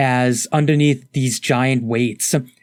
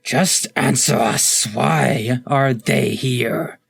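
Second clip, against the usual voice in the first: snarling crocodile; much slower than usual. Acted. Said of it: "the crocodile snarls up".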